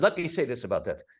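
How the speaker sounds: hammed-up, badly faked Hungarian accent; terrible Hungarian accent. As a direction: play Teller with a clumsy Hungarian accent, insisting on each denial. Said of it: "a terrible Hungarian accent".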